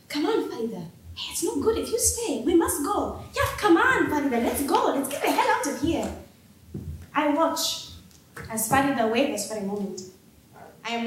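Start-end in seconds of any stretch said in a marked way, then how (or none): 0.1-6.1 calling out. Acted. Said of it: "call out to Farida".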